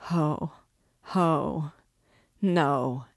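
frightful laugh. A narrator's reading. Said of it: "her former frightful laugh had returned".

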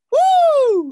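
very high, loud "woo" whoop; head voice. Shown as a demonstration. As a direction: send a ringing, high hoot up into the head. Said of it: "you feel it in your head".

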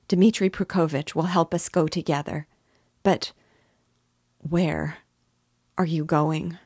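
she offers anything to keep him near; eager mother. Acted. Mother begging to come along with her son, hopeful.

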